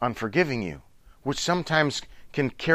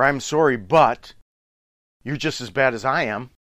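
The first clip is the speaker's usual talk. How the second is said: louder, defensive "I'm sorry, but"; defensive apology; 5 dB louder than usual. Retold or imitated. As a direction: justify yourself while apologizing.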